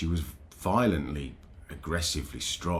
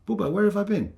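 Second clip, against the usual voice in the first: dazed wife echoing; 14 semitones higher, 7 dB louder, faster than usual. Retold or imitated. Confused wife echoes his question.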